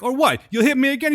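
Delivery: high mock New York wife; defiant Brooklyn wife, imitated; New York accent. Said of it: "talk like they're from New York".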